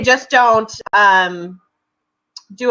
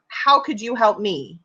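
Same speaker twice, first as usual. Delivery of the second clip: softer, mildly mocking self-serving networker; unmasked self-interest; 4 dB quieter than usual. Exposing what networkers really mean, mockingly self-serving. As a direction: lightly voice the networker's real selfish question. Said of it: "bullshit over".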